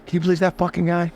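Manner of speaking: high, disbelieving aside to camera; mock exasperation at the customer; incredulous. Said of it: "you hear me look at the camera and go".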